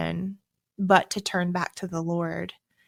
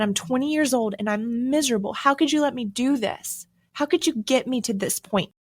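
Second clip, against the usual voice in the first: higher-pitched mock outburst at no extra volume; retold crying rant; 3 semitones higher than usual. Student driving back to college reproaching God, mildly acted anguished rant. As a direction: pile up accusing questions in a pleading, raised pitch. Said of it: "screaming at him and crying".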